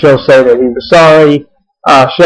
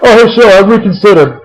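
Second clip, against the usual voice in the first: sarcastic muttered aside; 7 semitones higher than usual. Retold or imitated. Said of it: "Ace just says to himself".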